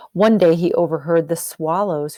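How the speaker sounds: a hushed whisper telling a secret. Acted. Teacher telling kids the swallows' secret, whispered. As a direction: lean in and whisper it. Storyteller hushes, overheard gossip.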